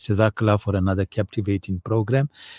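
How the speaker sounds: ordinary talk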